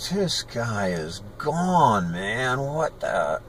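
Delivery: drawn-out, stunned disbelief; freaking out. Retold or imitated. Boy realizing this guy is gone, freaking out inwardly. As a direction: replay the stunned thought slowly. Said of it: "I was just freaking out".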